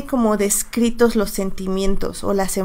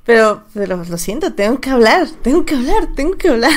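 talking through a sore throat; strained, sore throat voice; 2 semitones higher than usual. Real, not acted. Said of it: "me duele mi garganta".

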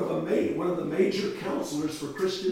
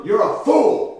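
high, loud accusing shout; retold outburst, raised in pitch and volume; imitated scream; 6 semitones higher, 10 dB louder, slower than usual. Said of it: "And she started to scream".

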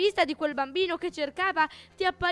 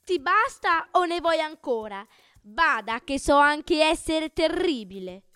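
pompous self-praise, slowing down at the end; boastful; 3 semitones higher than usual. Acted. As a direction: show off each grand title. Il Bugno elenca le sue lodi. (vanto pomposo e lento)

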